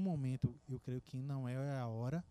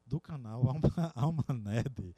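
sultry voice; 7 dB louder than usual. Pretend. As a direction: lay on the seductive voice. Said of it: "quando vocês escutarem essa voz sensual".

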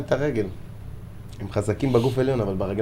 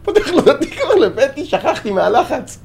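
high-pitched, laughing through the excuse, slowing at the end; laughing retelling; 13 semitones higher than usual. Retold or imitated. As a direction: giggle out the sheepish excuse. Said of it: "אז אני אומר לו".

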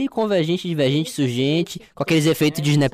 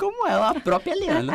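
high, laughing echo of the punchline; achando graça; 11 semitones higher, 5 dB quieter than usual. Real, not acted. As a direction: repeat it in amused disbelief, voice pitched way up. Repete a piada, achando graça. (rindo, com a voz bem aguda)

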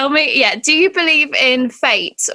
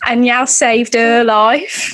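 Black Country accent; slower than usual. Shown as a demonstration. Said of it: "in Black Country".

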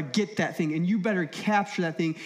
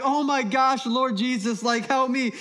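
breathless, louder panic while running; panicked prayer; 5 semitones higher, 3 dB louder than usual. Retold or imitated. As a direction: pray in a panic mid-sprint. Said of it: "I'm like".

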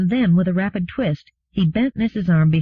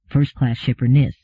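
plain reading voice

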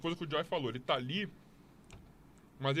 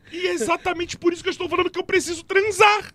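"preciso transar" said high, loud and pressed; emphatic intonation; 11 semitones higher, 6 dB louder than usual. Real, not acted. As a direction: punch "preciso transar" with insistent high pitch. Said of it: "a entonação".

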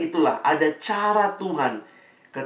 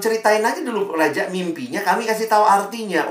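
coaxing wise men; 6 semitones higher than usual. Acted. Wise men plead again.

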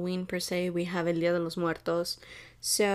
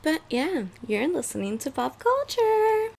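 high excited; 8 semitones higher, 4 dB louder than usual. Real, not acted. Podcast intro host voice.

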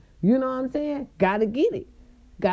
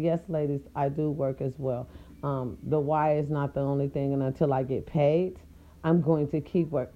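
classy calm; 4 semitones lower, 4 dB quieter than usual. Retold or imitated. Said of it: "I said".

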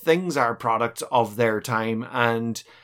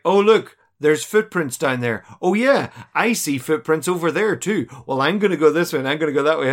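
mock excited; 3 semitones higher, 3 dB louder than usual. Parodying actors spotting footprints.

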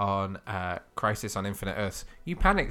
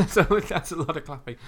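laughing whisper; 8 semitones higher, 7 dB louder than usual. Real, not acted. Echoing co-host with a laugh.

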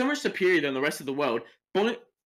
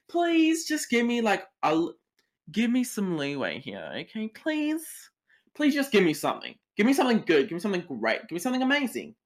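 pleading; 4 semitones higher than usual. Acted. Acting out begging for good dreams.

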